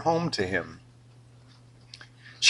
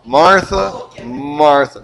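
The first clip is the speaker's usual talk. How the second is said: put-on a parent calling a kid in trouble; scolding parent; 2 semitones higher, 4 dB louder, much slower than usual. Parent scolding a child by name twice. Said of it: "You say your name twice".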